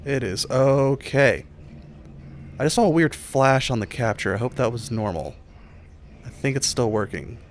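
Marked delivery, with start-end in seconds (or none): 0.1-1.4 slow, calming self-talk; slow reassuring. Real, not acted. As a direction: soothe yourself slowly. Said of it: "slow self-reassurance".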